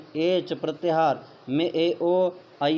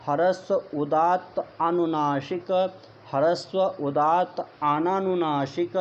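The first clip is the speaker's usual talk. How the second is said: each term said clearly with a pause, ह्रस्व leading every item; measured recitation. Shown as a demonstration. Teacher showing students how to say the terms, deliberate recitation. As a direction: recite the list carefully like a Sanskrit teacher. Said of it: "तो देखिए, इसको हम ऐसे बोलेंगे".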